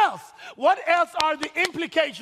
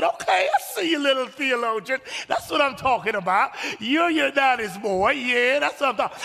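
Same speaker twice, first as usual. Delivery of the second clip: excited proud dad. Retold or imitated. Proud dad hyping his son.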